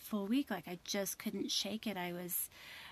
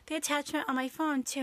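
sheepish confession; 6 semitones higher, 5 dB louder than usual. Retold or imitated. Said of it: "then I said".

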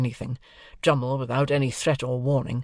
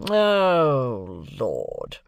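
scornful groan; 3 dB louder than usual. Acted. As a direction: scoff in weary contempt. Drummle scoffs again.

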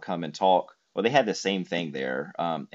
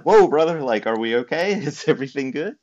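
much higher, louder startled "whoa brother"; own startled reaction; 8 semitones higher, 8 dB louder than usual. Retold or imitated. American fan caught out by the rival scarf, startled and laughing. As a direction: play yourself caught off guard, laughing. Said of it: "That's a great impression".

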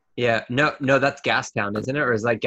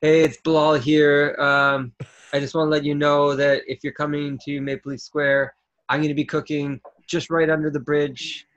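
lightly voiced Toronto local calling people over; Toronto guy impression; 4 semitones higher than usual. Asked for a Toronto impression, lightly voiced Toronto local. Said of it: "do your impression of somebody from Toronto".

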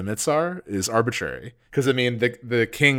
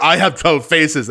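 mock character voice; 6 semitones higher, 8 dB louder, slower than usual. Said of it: "he shows up and he's like".

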